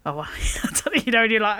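half-laughing whisper. Real, not acted. Telling a colleague about a shocking site video, giggling whisper. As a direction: drop to a whisper as if sharing a secret. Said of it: "I don't know why I'm whispering it".

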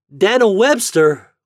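slow, high, loud coaxing; coaxing call. A narrator's reading. Boy calling his turkey off the shelf, coaxing. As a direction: call the bird drawn out and high. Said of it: "called Homer coaxingly".

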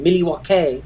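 a light Canadian-sounding Milwaukee, mil-ee-wau-kay; only hint at a Canadian accent on Milwaukee; slight Canadian-style Milwaukee. Shown as a demonstration. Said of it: "I have that type of accent".

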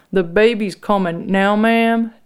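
suspicious question. A narrator's reading. Officer Dave questioning woman in labor, a bit suspicious. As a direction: question it as a doubtful officer would. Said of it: "looking a bit suspicious".

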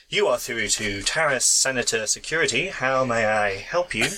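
lightly voiced recorded system message; automated voice. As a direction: read it like a phone menu. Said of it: "this is very much an automated voice".

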